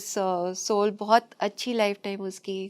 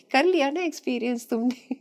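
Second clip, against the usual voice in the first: higher, amused teasing of her past self; laughing self-mockery, higher pitched; 5 semitones higher than usual. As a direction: poke fun at yourself, chuckling. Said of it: "अब वो हंस रहे हैं बैठ के".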